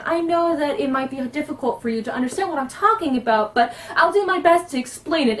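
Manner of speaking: lightly voiced optimistic, poetic innocent; naive bard cleric. Shown as a demonstration. Bard cleric introducing herself and offering help, naive and optimistic. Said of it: "I turn out to be a character like this".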